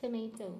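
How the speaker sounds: ടൊമാറ്റോ softly, with "may" in the middle; corrected pronunciation. Shown as a demonstration. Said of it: "correct ആണോ".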